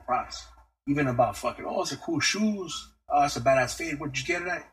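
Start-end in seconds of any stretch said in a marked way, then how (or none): 1.7-4.7 lightly voiced, upbeat compliment, pitch jumping higher at the end; a hint of an excited hype-man praising shoes; hyped compliment. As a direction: toss out props like you mean it. Giving people props, imitated.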